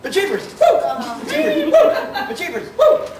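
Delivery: fan whoop. Acted. Superfan answers with his cheer.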